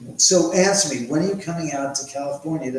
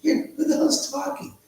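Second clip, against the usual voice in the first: much higher, joking spirit chatter; mock spirit voice; 14 semitones higher, 9 dB louder than usual. Joking that spirits talk to viewers, high mock voice. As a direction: squeak like a spirit butting in. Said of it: "You get to hear the spirits conversing".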